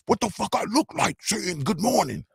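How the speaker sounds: high, mocking imitation of her; Scarlett impression. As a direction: mimic a brash New York woman's affront. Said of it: "She say".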